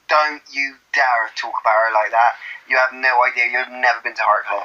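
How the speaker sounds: mock-offended broad Bristolian; Bristol accent. Defending Shereese to a mate, mock-offended Bristol accent. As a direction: scold in a thick Bristol accent. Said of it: "I'm from Bristol".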